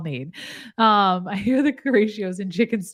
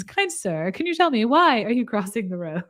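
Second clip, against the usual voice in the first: chicken voice; 2 semitones higher than usual. Pretend. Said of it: "As one of the chickens".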